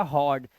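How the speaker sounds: "हॉर्ड" with an open aw before the r; open "aw" vowel. Shown as a demonstration. Teacher repeats the answer for learners, open aw in "हॉर्ड". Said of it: "इस तरह से ये हो जाएगा हॉर्ड".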